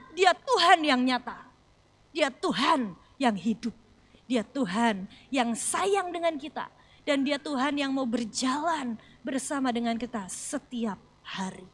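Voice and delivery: slow emphatic preaching. Acted.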